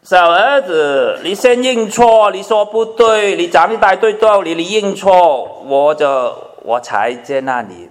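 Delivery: a father insisting the son admit fault first; stern father demanding an apology. Retold or imitated. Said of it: "他没有说".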